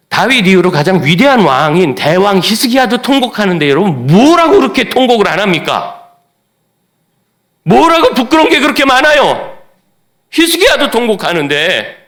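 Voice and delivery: high, loud, pleading sermon cry; preaching at full force. Acted. Preacher urging the congregation to weep before God, at full force. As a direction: drive it home with a cry.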